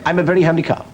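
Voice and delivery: a lightly voiced talking cow; proud little cow listing chores. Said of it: "Throws his voice".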